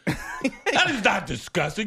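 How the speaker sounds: slow words through laughter; drawn-out laughing denial; laughing protest. Real, not acted. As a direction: laugh it off while denying.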